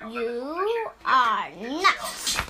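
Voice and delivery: slow whisper of disbelief. Acted. Gerald whispering to Piggy in slow disbelief. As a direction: hush it like a secret.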